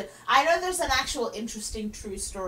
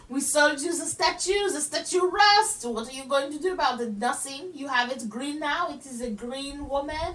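pitched-up fake French scolding; mock French accent; 2 semitones higher than usual. French seller scolds America over the statue, mock French accent. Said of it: "why am I doing a French accent".

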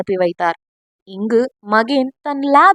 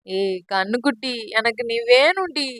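much softer, lovesick murmur; tender murmur; 6 dB quieter than usual. Acted. Veeri murmuring to his absent sweetheart, much softer and lovesick. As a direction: murmur it longingly to her.

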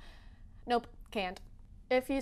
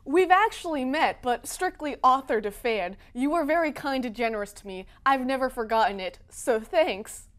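John Green voice; 3 dB louder than usual. Acted. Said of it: "John Green tweets back".

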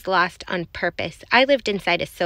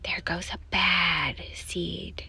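slow, soft, low muttering; hushed mumble; 3 semitones lower, 9 dB quieter, much slower than usual. A narrator's reading. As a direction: mumble it slowly behind someone's back. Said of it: "they mumble".

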